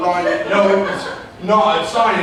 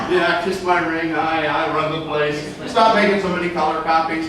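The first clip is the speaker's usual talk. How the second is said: imitating bossy broker; 5 semitones lower than usual. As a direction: lord it over the office. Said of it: "Your broker's always like".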